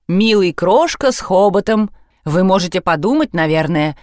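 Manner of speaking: usual speaking voice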